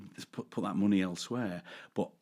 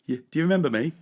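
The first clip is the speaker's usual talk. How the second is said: higher, louder rising question; expectant stranger; 7 semitones higher, 8 dB louder, much faster than usual. Retold or imitated. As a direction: put on a hopeful stranger. Acted fan approaching him.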